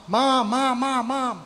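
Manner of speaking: put-on high, loud child's cry for help; re-enacted yell for Mom. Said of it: "yelling for my mom".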